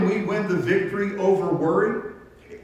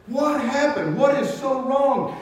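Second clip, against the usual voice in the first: much higher, urgent worried questions; alarmed concern; 8 semitones higher than usual. Retold or imitated. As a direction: ask like something terrible happened. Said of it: "he just started bawling".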